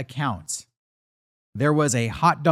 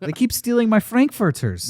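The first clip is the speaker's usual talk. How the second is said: put-on German accent; 8 semitones higher than usual. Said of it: "I'm trying to do a German accent".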